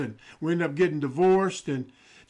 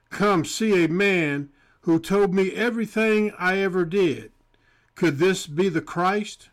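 scripture reading. Acted. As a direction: read the verses with weight.

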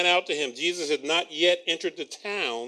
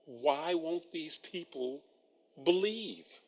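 dismayed; 8 dB quieter, slower than usual. Retold or imitated. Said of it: "He's like".

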